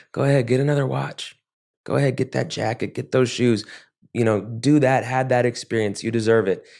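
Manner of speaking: lightly acted quick, egging-on voice; urging inner addict voice. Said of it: "getting louder".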